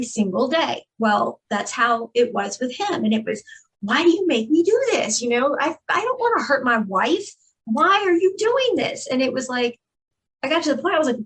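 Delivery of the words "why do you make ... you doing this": high, whiny mock plea of the abuser; quoting his guilt-trip in a raised pleading voice; imitating her abusive husband. Woman quotes her abusive husband's excuses, mock pleading.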